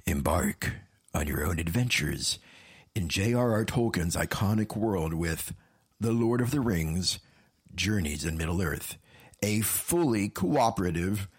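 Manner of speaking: low, deep movie-trailer narration; dramatic trailer read. Acted. Reads game blurb dramatically.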